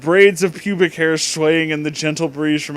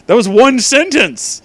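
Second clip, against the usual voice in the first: exasperated outburst; 8 semitones higher, 6 dB louder than usual. Real, not acted. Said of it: "exasperated outburst at fanfic".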